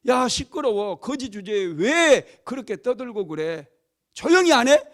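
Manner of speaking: irritated hushing, building to a loud high bark; acted crowd rebuke, ending in a shout; scolding. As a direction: tell off a noisy beggar. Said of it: "시끄럽다고, 조용히 하라고 얘기합니다".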